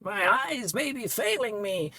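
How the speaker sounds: a weary priest lecturing; old priest NPC. Acted.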